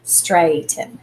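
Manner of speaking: straighten with the ai held long; straighten, first syllable drawn out. Shown as a demonstration. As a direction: stretch the vowel in straighten. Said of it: "makes the long A sound".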